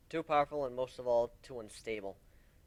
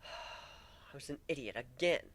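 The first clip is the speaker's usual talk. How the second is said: sighing; 4 dB quieter, slower than usual. Acted. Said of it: "I slumped down in bed and sighed".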